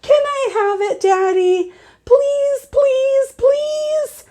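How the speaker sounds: put-on high, pleading little-girl whine; child begging parents for the last swim ring; urgent begging child. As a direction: beg your parents, over and over. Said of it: "very urgent".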